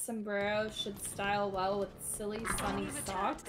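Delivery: sibilants through a retainer; wearing a retainer. Pretend. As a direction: say it round a mouth retainer. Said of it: "Make me say something with my retainers in".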